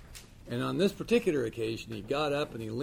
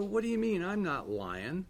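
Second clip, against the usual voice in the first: indignant retort; 7 semitones higher than usual. Retold or imitated.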